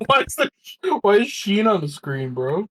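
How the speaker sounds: high, laughing disbelief; surprised. Real, not acted. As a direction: ask in giggling disbelief. Surprised by image on screen.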